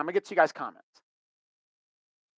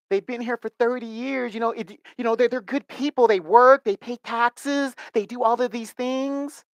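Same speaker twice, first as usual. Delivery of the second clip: higher mock Latina accent, earnest; Latina accent imitation; 6 semitones higher than usual. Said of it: "Sorry about the accent".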